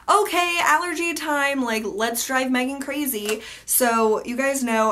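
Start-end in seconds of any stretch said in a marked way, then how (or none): 0.1-3.4 playful villain voice. Pretend. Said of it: "it was like".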